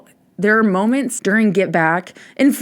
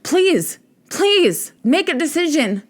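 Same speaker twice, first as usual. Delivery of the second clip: pleading Paul; 3 semitones higher than usual. Retold or imitated. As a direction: beg them not to leave, voice pitched up. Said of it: "And he's like".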